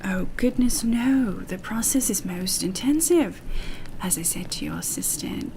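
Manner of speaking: lightly put-on English accent; oh four nine. Interviewed doctor explains his methods to Doctor Ham, English accent. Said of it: "I'll try to do both again".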